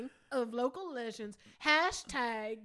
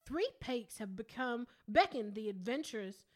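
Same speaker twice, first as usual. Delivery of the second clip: put-on Southern accent read. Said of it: "impression of a Southern accent".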